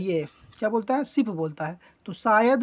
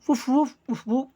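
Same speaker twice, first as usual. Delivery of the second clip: dog barking; 4 semitones higher than usual. Acted. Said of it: "कुत्ता अपनी आवाज़ में".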